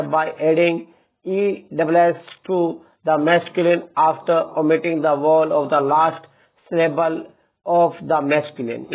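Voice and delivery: slow, word-by-word dictation of the rule; dictating a rule. Acted. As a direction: read it out slowly so students can copy. Reads rule aloud slowly. (धीरे-धीरे लिखवाते हुए नियम पढ़ना)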